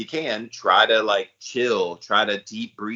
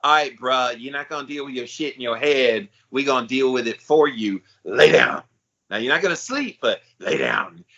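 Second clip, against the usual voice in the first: the body laying down the law, bruh-style; lightly voiced, no-nonsense talking body; stern body talking; 4 semitones higher than usual. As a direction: speak as a fed-up body giving orders. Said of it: "body says".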